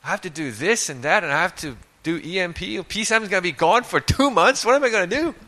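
high, fast mock panic; hammed-up self-mocking panic; mock frantic. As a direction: rattle off worries like a frantic planner. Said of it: "that's how I am for sure".

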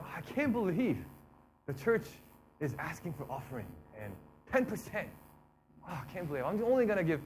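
mock disbelieving grumble; lightly hammed-up reluctant giver; grudging complaint. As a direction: act put out at being asked.

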